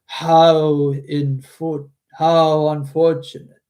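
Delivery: slow, loud godlike voice; divine voice. Acted. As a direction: speak like a solemn deity. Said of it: "give him more of a divine voice".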